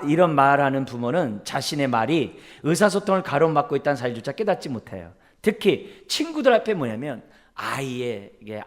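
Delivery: ordinary delivery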